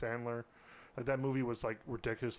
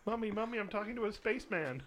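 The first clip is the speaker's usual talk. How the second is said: put-on little girl voice; 9 semitones higher than usual. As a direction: play an excited little girl calling her mom.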